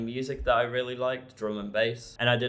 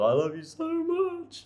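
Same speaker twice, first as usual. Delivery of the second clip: gushing, much higher, slowed; blissed-out high. Retold or imitated. Gushing to people while high on MDMA, high slow voice. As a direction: mimic a loved-up raver gushing to friends.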